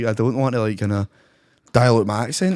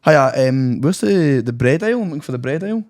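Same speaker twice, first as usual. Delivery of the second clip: pretend customer; 3 semitones higher than usual. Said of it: "pretend you're a customer from Tesco".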